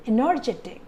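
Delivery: Energetic with weight on the third syllable JE; stress on JE. Shown as a demonstration. Teacher repeats the example, stressing Energetic on JE. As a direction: make JE stand out in Energetic. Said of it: "the stress is on j".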